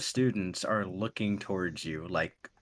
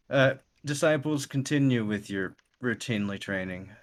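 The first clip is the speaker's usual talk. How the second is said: raised, louder commanding call to the class; master addressing disciples; 4 semitones higher, 5 dB louder than usual. Acted. Master calling out to his disciples, louder and higher. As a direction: address the students like their master. GM voicing Kenichi to students.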